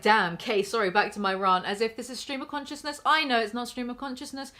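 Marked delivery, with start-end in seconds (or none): 0.0-1.6 mocking repeat. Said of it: "So writing things like".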